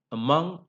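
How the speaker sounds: among said a-MONG; stress on the root. Shown as a demonstration. Teacher repeats the root stress, among stressed on MONG. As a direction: put the weight on mong in among. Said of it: "stress goes on the root".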